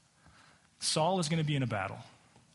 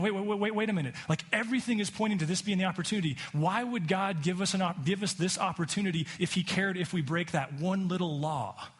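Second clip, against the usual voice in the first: excited urging; 5 semitones higher than usual. Retold or imitated. Troops urging David to act.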